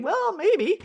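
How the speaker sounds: a dry private jab; sarcastic aside. Retold or imitated. Answering the scammer's race question in her head, wry and sarcastic.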